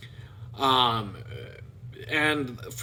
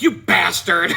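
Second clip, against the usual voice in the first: mock angry; 6 dB louder than usual. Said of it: "like, laughing, but she was pissed off".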